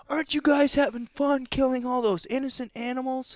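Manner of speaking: high-pitched mocking activist voice. Imitating animal rights activist heckling hunters, high mock voice. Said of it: "yell at us".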